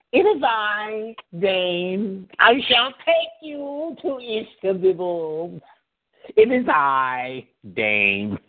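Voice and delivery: slow, stately "It is I, Dane"; a mock-regal entrance, stretched slow; grand slow Dane impression. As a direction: announce yourself like royalty. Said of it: "Dane bit continues".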